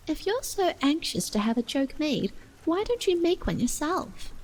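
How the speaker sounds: high, rising retort; Alice, pert and high; challenging Alice. Acted. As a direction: turn it back on the voice.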